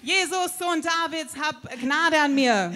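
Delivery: a beggar calling out for mercy. Acted. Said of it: "er schrie so laut er konnte".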